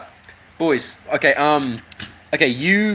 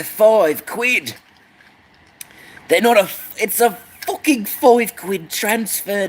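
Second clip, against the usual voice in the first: mock lecturer. Pompous interpreter figure.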